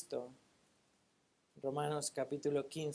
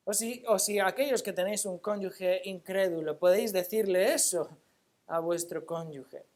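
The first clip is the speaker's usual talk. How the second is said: emphatic preaching; 4 semitones higher, 5 dB louder than usual. Real, not acted. Preacher challenges the congregation.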